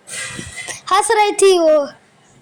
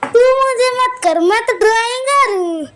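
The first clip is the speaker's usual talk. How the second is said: higher-pitched mock protest; retold boastful protest; 3 semitones higher than usual. Groom brushing off criticism of the makeup, mock protesting. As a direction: push back, playing the offended expert.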